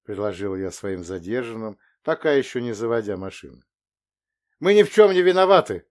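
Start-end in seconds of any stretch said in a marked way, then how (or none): 4.6-5.8 loud and high, protesting together; loud chorus of denial; in unison. Acted. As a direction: shout their innocence as one. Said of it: "хором повторили".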